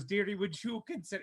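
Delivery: high voice, fighting off tears; holding back weeping. Acted. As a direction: speak through held-back sobs. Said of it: "holding back some, some weeping".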